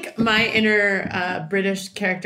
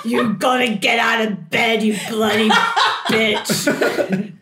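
put-on loud, rough-living British rocker accent; a rock guitarist impression; 4 dB louder, slower than usual. Inner British voice ordering her up, rocker accent. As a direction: play a British rock-star inner monologue. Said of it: "a rock guitarist".

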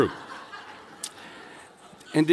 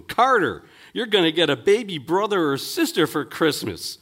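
higher, excited parent breaking news; excited announcement; 5 semitones higher than usual. Acted. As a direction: call the child, then share it excitedly. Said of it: "said excitingly to him".

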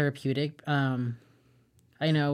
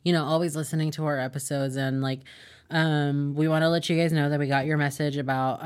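all in one breath. Real, not acted. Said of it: "I just talked without taking a breath".

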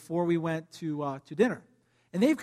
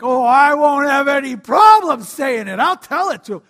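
blunt truth person; 7 semitones higher, 14 dB louder than usual. Retold or imitated. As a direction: play the eager truth-teller. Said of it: "you're a truth person and you're like".

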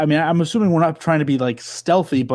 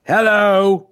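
loud hello; 5 semitones higher, 5 dB louder than usual. Retold or imitated. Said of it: "he immediately just goes".

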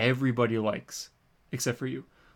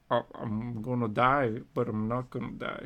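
lightly voiced teenage girl, slow; a hint of a dramatic young girl; nineteen-year-old girl voice; 3 dB quieter than usual. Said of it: "Great voice".

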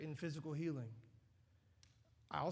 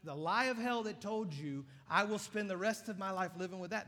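voice of the lie; 5 semitones higher, 6 dB louder than usual. Acted. Voicing the lie of hell.

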